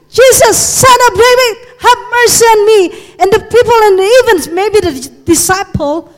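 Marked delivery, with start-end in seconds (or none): 0.1-2.8 high, loud pleading cry; persistent shouting. Acted. Beggar who keeps shouting to Jesus as he passes, loud plea. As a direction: keep crying out for mercy. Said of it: "So he keep shouting".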